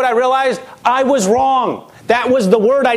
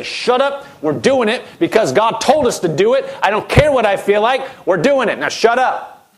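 mock firm rebuke. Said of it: "put your flesh down and say".

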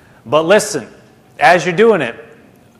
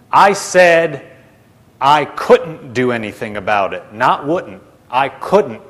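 "couldn't" set apart firmly after a pause; stress on couldn't; 2 semitones lower, slower than usual. Retold or imitated. Jesus correcting Brother Hagin's hearing, stress on couldn't. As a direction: correct them, leaning on "couldn't" against "wouldn't".

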